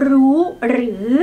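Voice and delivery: รู้ in high tone, then หรือ dipping and rising. Shown as a demonstration. Teacher showing the five Thai tones, high then rising tone. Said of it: "One sentence to fine-tune the five Thai tones".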